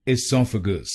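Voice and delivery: "esophagus" as i-SOF-a-gus, short i, stress on sof; correct pronunciation. Shown as a demonstration. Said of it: "इसकी सही pronunciation है".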